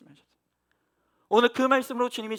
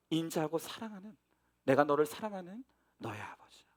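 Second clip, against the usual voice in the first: tender voice of God; 4 semitones lower than usual. Retold or imitated. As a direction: speak as a father comforting his child, gently. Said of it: "이것을 깨닫게 하셨어".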